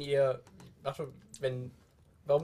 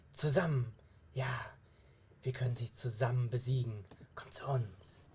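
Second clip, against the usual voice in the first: hushed, eerie luring voices from the abyss. Acted. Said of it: "du hörst Stimmen, die rufen".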